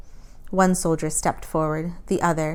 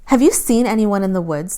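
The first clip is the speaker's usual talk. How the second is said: loud barked demand; hard, loud soldier's demand; barked question; 3 semitones higher, 7 dB louder than usual. A narrator's reading. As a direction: bark it at her. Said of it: "the soldier barked".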